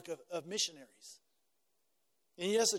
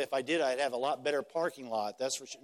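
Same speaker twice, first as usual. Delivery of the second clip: joking aside; 6 semitones lower than usual. Retold or imitated. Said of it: "And I said".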